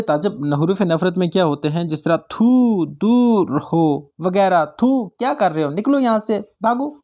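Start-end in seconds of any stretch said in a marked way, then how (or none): 2.3-4.1 drawn-out mock scorn; demonstrated disgust. Shown as a demonstration. Teacher showing students words of hatred, mock disgust. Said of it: "इस तरह के अल्फाज आप बोलते हो नफ़रत से". 4.8-6.9 higher-pitched mock dismissal; demonstrated disgust. Shown as a demonstration. Teacher acting out hateful words for students, mock disgust. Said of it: "इस तरह के अल्फाज आप बोलते हो नफ़रत से".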